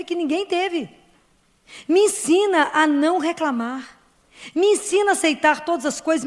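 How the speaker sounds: a heartfelt petition, voice lifted; fervent prayer. Pretend. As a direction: beg her gently to teach you.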